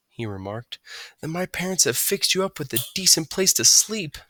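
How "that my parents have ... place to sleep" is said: mouse voice. A narrator's reading. Stuart voice.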